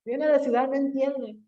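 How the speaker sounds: a hint of teasing laughter as she imitates them; mocking laugh. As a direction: retell the villagers laughing at the city girl. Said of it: "Y se reía, pues obviamente así".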